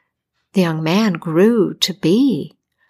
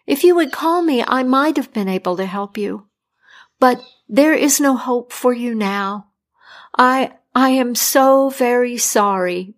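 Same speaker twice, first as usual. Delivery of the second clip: a somewhat higher, apologetic doctor; sorry but firm, a little higher; 3 semitones higher than usual. Acted. Doctor telling the dying king there is no hope, apologetic.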